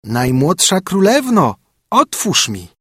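slow drawn call at the door; slow calling frog voice. Acted. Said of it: "zastukała i woła".

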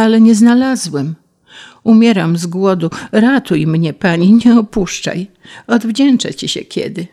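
a lightly voiced starving grasshopper, begging; pleading grasshopper. Grasshopper begs the bee.

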